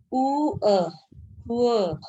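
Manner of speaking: "उ अ" as oo then short a, sounded out; teacher sounding out both vowels of "उ अ"; sound-blending demo. Shown as a demonstration. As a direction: push oo towards a short a in "उ अ" until va emerges. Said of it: "व की sound आ रही है".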